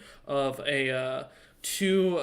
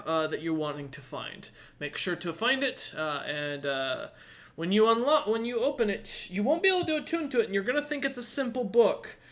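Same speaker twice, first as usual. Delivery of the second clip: high, airy seer's voice; lightly voiced prophetic lady; mysterious lady; 5 semitones higher than usual. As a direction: advise them like a cryptic oracle. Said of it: "looks about her sundial and goes".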